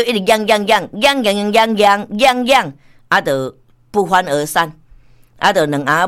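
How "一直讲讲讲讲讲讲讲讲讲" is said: slow, droning imitation of nagging; mock arguing on and on. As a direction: mimic someone going on and on, stretched out. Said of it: "你搁大声讲".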